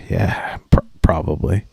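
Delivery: imitating a sheepish clerk, softly; halting, low-energy admission after a sigh. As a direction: mumble it like a chastened kid. Chastened clerk sighs, gives in.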